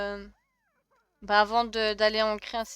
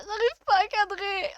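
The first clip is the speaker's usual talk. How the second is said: getting annoyed; 9 semitones higher, 5 dB louder than usual. Real, not acted. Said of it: "ça va m'énerver encore".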